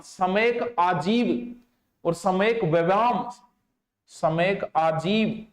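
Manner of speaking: सम्यक संकल्प drawn out slowly, repeated; slow dictation. Shown as a demonstration. Teacher dictating the eightfold path slowly to note-takers. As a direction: dictate each term slowly and clearly. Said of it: "दो तीन चार बार ही खातर बोलूं".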